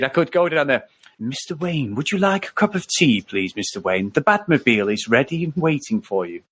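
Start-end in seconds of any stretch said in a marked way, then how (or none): 1.2-6.4 a lightly voiced, camp butler; Alfred impression. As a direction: offer the tea like a prim butler.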